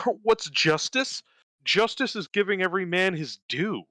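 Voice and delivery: high, giggly voice for a smug know-it-all; high-pitched mock Polemarchus breaking into laughs; silly Polemarchus voice. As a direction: play him as a pleased, laughing simpleton. Polemarchus voiced in retold dialogue.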